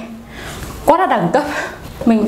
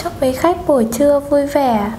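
polite phone operator voice; formal hotline greeting; customer service voice; 3 semitones higher than usual. Pretend. Prank call as Viettel operator.

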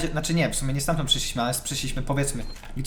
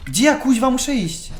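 panicked; 7 semitones higher, 3 dB louder than usual. Real, not acted. Lost in tense game moment.

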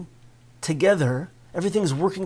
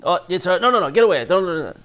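mock frantic pushing away; 2 semitones higher, much faster than usual. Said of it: "If you just say".

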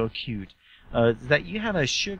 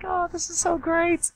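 gushing quote. Retold or imitated. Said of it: "So I'm like".

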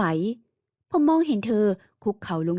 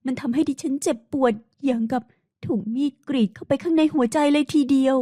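lightly raised, wounded woman's voice; a hint of an anguished heroine; hurt young woman; 5 semitones higher than usual. Heroine pleads her innocence. (น้ำเสียงหญิงสาวเจ็บปวดแบบเบาๆ)

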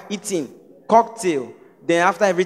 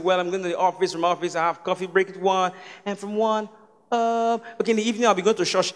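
low, soft mock British-Warri accent; understated imitation of put-on Warri British English; 4 semitones lower, 11 dB quieter than usual. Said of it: "British Warri".

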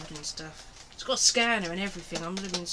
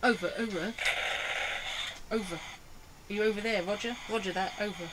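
crackly military radio. Pretend. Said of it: "finish every transmission with over".

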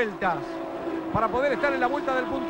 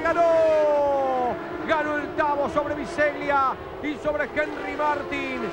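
excited; slower than usual. Real, not acted. Finish line win call.

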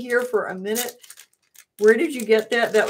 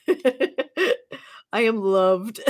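laughing; much slower than usual. Real, not acted. Laughing over gift.

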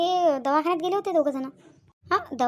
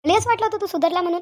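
raised, exasperated reproach; scolding; 2 semitones higher than usual. Acted. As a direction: demand an answer from the wrongdoer. Aunt berates Rahul for knowing better. (रागाने जाब विचारत)

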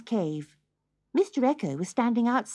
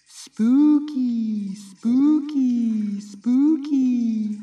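cave echo; 2 semitones higher, 4 dB louder, much slower than usual. Acted. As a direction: let it ring back like an echo in a cave. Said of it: "a voice replied".

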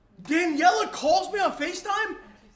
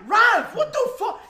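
startled yell at a friend; loud shocked laugh-yell; 5 semitones higher, 4 dB louder than usual. Retold or imitated.

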